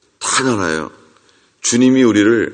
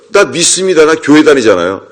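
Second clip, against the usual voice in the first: higher-pitched mock protest; defensive protest; 4 semitones higher than usual. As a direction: insist on it like an indignant churchgoer. Acting believers' defensive protest. (발끈하며 항변하는 말투)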